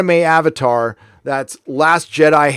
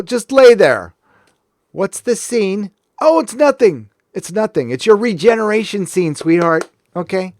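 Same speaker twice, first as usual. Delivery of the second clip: mock director coaxing; 4 semitones higher than usual. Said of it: "did they just go".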